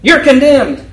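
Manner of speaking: a hint of a stern judge banging the gavel; lightly voiced judge condemning someone; mock judge's verdict. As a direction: pronounce the sentence like a self-appointed judge. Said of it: "bang the gavel and say".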